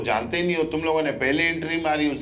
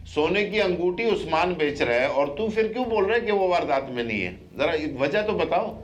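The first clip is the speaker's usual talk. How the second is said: raised, higher-pitched accusation; pressing, indignant questioning; accusing interrogation; 5 semitones higher than usual. Real, not acted. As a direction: confront a suspect over a lie. Interrogator accuses suspect of lying.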